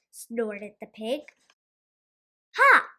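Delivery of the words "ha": sharp high "Ha!"; a scornful burst, high and loud; mocking cry of triumph; cried out. A narrator's reading. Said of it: "cried the gingerbread man".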